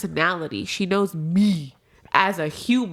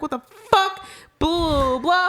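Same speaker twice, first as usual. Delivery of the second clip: high-pitched mock rant; retold venting outburst; 7 semitones higher, slower than usual. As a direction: act out blowing up on the phone. Acting out a venting phone call.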